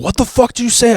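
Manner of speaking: mock furious redneck; angry retort. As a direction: snap back in disbelief. Ex-husband reacting angrily.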